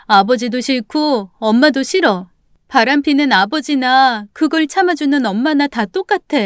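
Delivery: upset, accusing protest; tearful defiance. Acted. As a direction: throw the blame back at her. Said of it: "제가 엄마한테 대들면서 막 우니까".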